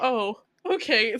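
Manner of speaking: slow, mildly let-down acceptance; a little sad. Retold or imitated. Man told no by the woman, imitated, a little sad. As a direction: draw out a mock-disappointed reply. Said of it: "back to being a little sad".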